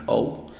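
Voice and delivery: "O" said as its name, "ou"; long O sound. Shown as a demonstration. Teacher showing long O, said "ou". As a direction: say O as the glide "ou". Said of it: "la O dice su nombre".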